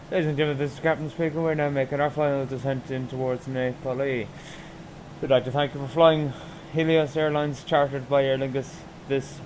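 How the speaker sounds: lightly put-on airline pilot PA voice; captain announcement. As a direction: read it like a captain on the intercom. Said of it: "I make a fake announcement to fake passengers".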